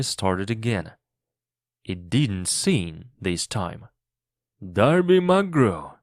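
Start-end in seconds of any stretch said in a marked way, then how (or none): 4.6-6.0 calling out, higher and louder; distant shout. A narrator's reading. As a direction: hail a lost shipmate from far away. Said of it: "it shouted from far away".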